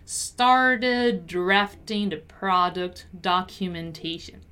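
"Started drafting the product documentation" slowly, each R clearly sounded; slow pronunciation drill on the R's in "product"; careful R's. Shown as a demonstration. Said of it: "there are a lot of R's".

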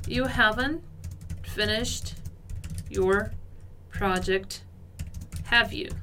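slow, paused between words; halting teacher demo; word by word reading. Shown as a demonstration. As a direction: lay each word out for the class. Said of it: "nossa última frase".

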